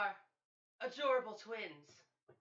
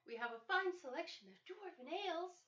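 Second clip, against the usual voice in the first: higher sweet serving maid voice; tavern maid voice; 7 semitones higher, 5 dB quieter, faster than usual. Acted. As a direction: voice a friendly barmaid.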